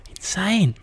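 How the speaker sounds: a breathy whispered "Insane"; whispered awe. Real, not acted. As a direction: let it fall away in a whisper. Awed reaction after the story.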